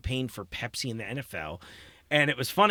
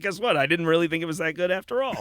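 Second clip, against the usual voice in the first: snarky; 4 semitones higher than usual. Retold or imitated. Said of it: "start being a little snarkier".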